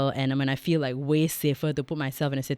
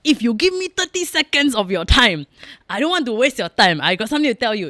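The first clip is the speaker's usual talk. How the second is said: ad voice parody; 6 semitones higher, 5 dB louder than usual. Retold or imitated. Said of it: "is the".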